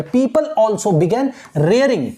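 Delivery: very slow, word by word reading of the text; slow dictation reading. Shown as a demonstration. Teacher reading the textbook line aloud slowly to students. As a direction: read it out slowly for students to follow.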